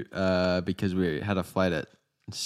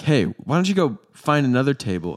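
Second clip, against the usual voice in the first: demanding; 5 semitones higher, 3 dB louder than usual. Retold or imitated. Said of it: "Tells this guy".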